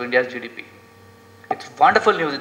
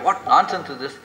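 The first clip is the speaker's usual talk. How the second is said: agitated father; 3 semitones higher than usual. Retold or imitated. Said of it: "This fellow gets so agitated".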